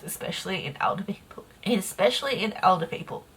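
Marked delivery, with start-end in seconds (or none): 0.0-1.4 dropped to a soft whisper; soft whisper under the breath. Real, not acted. Repeats the phrase, first whispered.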